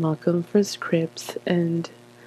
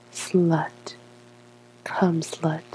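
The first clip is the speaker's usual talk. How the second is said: whispered; much slower than usual. Pretend. Sultry erotic words.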